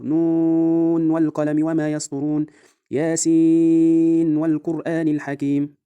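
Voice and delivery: measured tajweed chant, clear unmerged n at the end of نون and ياسين; Quranic recitation with izhar. Shown as a demonstration. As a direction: chant slowly, holding long vowels in نون and ياسين, clear n before the w. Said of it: "هكذا بالإظهار".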